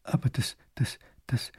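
broken, whispered stammer; shocked grand duke stammering, barely voiced; stuttering. A narrator's reading. Grand duke, shocked by the insult, stammers in a whisper. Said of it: "nur stottern".

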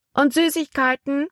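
put-on high, eager child voice; a small boy hoping for sweets; little boy asking. A narrator's reading. Little boy asking the ship boy about candy, eager and high. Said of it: "wollte ein kleiner Junge wissen".

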